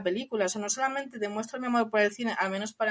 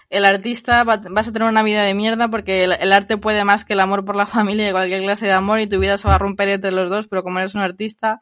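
acted shouted quote; 7 dB louder than usual. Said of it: "le dice".

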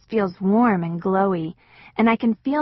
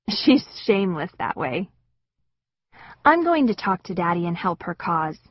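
usual speaking voice

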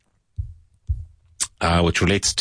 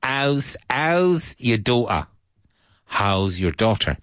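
higher Cockney, dropped t in daughter; Cockney Trina; 4 semitones higher, slower than usual. Retold or imitated. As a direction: do Trina asking Richard about his daughter. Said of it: "Trina says".

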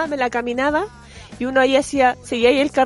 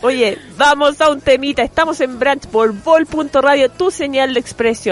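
radio host read. Acted. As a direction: announce the show to listeners.

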